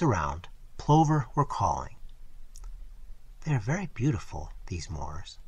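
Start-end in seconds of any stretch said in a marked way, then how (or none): 3.4-5.4 softer, trailing down at the end; quietly. A narrator's reading. Girl admiring the moors at dusk, quiet. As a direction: say it low, half to herself. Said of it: "she said quietly".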